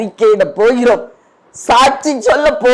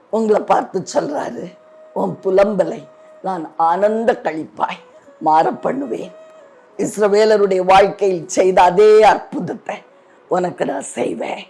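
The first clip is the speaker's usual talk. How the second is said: gentle prophecy; 2 semitones lower, 4 dB quieter than usual. Real, not acted. Preacher delivers God's promise.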